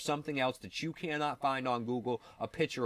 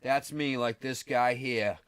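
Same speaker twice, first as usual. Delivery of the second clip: mocking boaster; slower than usual. Mocking Billy Carson's field work.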